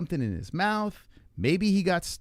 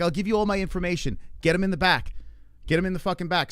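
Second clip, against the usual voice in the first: higher, insistent retold demand; urgent demand; 4 semitones higher, faster than usual. Father refusing paperwork at urgent care, mildly urgent and insistent. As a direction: push past the paperwork, re-enacting it.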